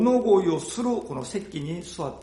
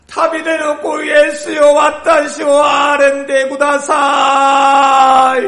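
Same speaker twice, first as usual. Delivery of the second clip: shouting high and loud, pleading; desperate cry; 14 semitones higher, 18 dB louder than usual. A narrator's reading. Blind beggar crying out to Jesus over the crowd, desperate shout. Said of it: "誠実に叫び始めました".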